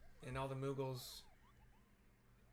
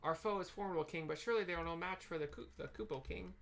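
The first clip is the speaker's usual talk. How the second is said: moogle knight; 4 semitones higher than usual. Acted. Voicing moogle dialogue.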